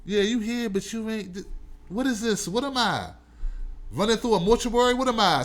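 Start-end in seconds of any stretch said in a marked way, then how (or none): none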